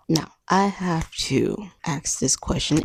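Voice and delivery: whispered, leaning in to the camera; conspiratorial whisper. Real, not acted. To her viewers, before a cheeky question: a conspiratorial whisper. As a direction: let them in on a naughty secret, whispered. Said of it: "it may be inappropriate".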